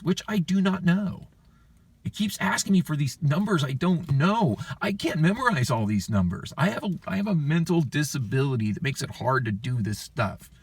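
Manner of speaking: high-pitched, overwhelmed complaint; exasperated protest. Retold or imitated. Customer telling banker they can't memorize numbers, exasperated.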